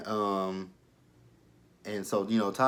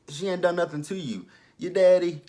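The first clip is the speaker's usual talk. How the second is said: indignant scolding; 8 semitones higher, 6 dB louder than usual. Real, not acted. Scolding a TV character.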